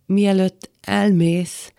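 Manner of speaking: halting words, voice close to breaking; faltering, trembling voice. Acted. Man pleads as the woman leaves, trembling. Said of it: "elcsukló, szinte remegő hangon azt mondta".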